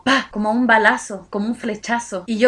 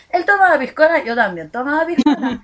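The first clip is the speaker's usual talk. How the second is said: building excitement; 4 semitones higher, 6 dB louder than usual. Retold or imitated. Mirroring him, rising excitement.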